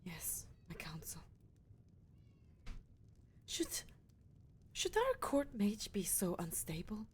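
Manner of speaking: slow unvoiced whisper. Leader quietly questioning the court mage, slow whisper. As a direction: murmur it slowly, half to herself.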